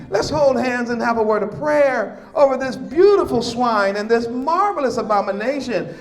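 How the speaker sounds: lightly voiced, sarcastic mock of a gushing Messiah; a hint of a cheerful Jesus, dripping with sarcasm; mocking impression. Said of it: "he's gonna say".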